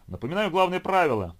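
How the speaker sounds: loud, high showman's welcome; booming circus ringmaster. A narrator's reading. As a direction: boom it into the mic like a ringmaster. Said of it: "продолжал чёрт конферансье".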